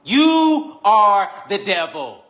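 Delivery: hammed-up sermon punchline; slow dramatic reveal. Real, not acted. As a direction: drop the line like a verdict, word by word. Preacher drives home the point.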